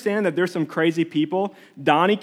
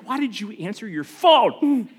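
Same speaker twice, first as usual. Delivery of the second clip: higher-pitched retold scolding of dad; mock exasperation; 3 semitones higher than usual. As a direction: act out baffled exasperation at dad. Acts out scolding his dad.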